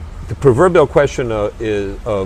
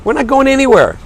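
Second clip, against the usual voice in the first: imitating a weary parent; 8 semitones higher than usual. Parents of a sick child turning down a night out, exasperated. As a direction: play the worn-out parent brushing off date night.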